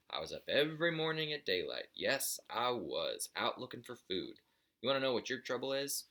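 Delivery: a hint of a crotchety father lecturing his lazy son; lecturing old buzzard.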